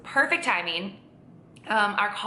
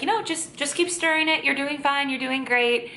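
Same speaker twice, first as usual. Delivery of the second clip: higher-pitched, reassuring coach voice; imitated encouragement; 6 semitones higher than usual. Vlogger quoting the chef to a worried learner, high and reassuring.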